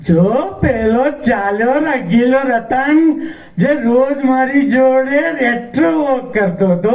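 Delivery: high, carrying announcement; put-on high voice pointing someone out; imagined woman announcing. Voicing her imagined future announcement.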